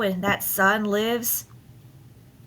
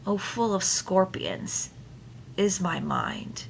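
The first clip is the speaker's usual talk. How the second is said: whispered line; 6 dB quieter than usual. Shown as a demonstration. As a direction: breathe it out as a secret. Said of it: "Love that line".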